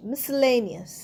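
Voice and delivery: miscellaneous as "mis-lenias", no K; silent C. Shown as a demonstration. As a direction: model miscellaneous with SC as one S. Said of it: "সি উচ্চারণ হচ্ছে না".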